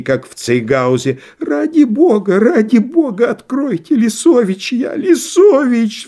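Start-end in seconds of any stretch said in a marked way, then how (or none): 1.4-6.1 very high, drawn-out terrified wail; panicked cry. A narrator's reading. Vasilisa at the door begging to be let in, terrified wail. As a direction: beg in terror, pitched way up. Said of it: "вскричал силуэт".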